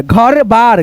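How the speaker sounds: घर बार slowly, as two separate pieces; slow beginner's reading of घर बार; split into parts. Shown as a demonstration. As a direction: draw out घर, then बार. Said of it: "दो भागों में divide करके".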